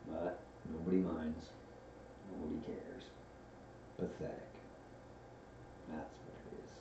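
very soft, low, dejected donkey; gloomy Eeyore. A narrator's reading. Old donkey alone by the stream, sinking gloomily. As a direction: let it sink away into quiet self-pity. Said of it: "said Eeyore gloomily".

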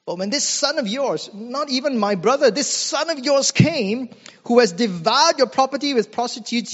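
put-on an older son ranting at his father, pitch rising; bitter rant. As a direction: vent years of grievance at the father. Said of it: "the older brother lets out a rant".

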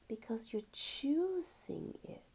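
hushed, breathy answer, let it land softly; whispered reveal. Real, not acted.

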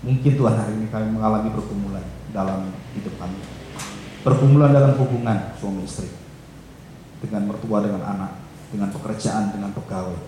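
earnest congregational prayer. Acted. Pastor praying for the congregation, earnest prayer voice. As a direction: pray for the church, steady and earnest.

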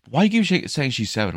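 high, loud incredulous retort; mock the dad's outrage; annoyed dad. Dad challenging the lifeguard, high mocking voice.

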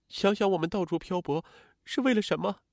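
high-pitched, anguished wife's voice; acted weeping reproach; tearful plea. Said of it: "郝林痛哭着".

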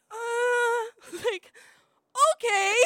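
high, loud, laughing hesitant okay; nervous laugh. Retold or imitated. Invited to meet his dogs, high nervous laughing okay. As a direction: laugh your way into an uneasy yes. Nervous about going to shop.

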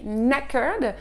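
"Knackered" starting on N, K silent. Shown as a demonstration. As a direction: say "Knackered" as "nackered". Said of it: "Ne prononcez pas le K". ("Knackered" sans prononcer le K)

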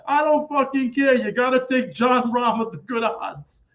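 retold impatient rant; dismissive outburst. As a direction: brush the pick off, imitating the friend. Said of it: "I said".

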